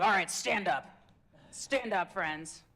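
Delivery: mock class cheer. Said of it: "Usually everyone's like".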